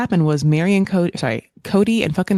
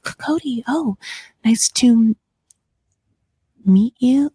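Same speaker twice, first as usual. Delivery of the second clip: high, stammering, breathless pretend shyness; flustered fake Robin; 6 semitones higher than usual. Robin meeting Cody, high and stammering. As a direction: act dazzled, tripping over the name. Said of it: "that entire reenactment".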